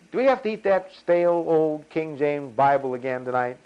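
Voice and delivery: droning, put-on grumbler's voice; mock complaining. Mimics grumblers complaining to God.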